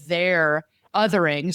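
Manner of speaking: slow, set-apart THEIR before othering; air-quoted. Real, not acted. Explaining to the co-host how people get labeled, air-quoted "their". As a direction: lean on "their" as if in quote marks. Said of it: "air quote".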